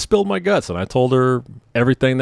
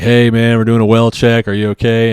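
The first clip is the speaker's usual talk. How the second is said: cops calling out; 5 dB louder than usual. Retold or imitated. Cops knocking at door.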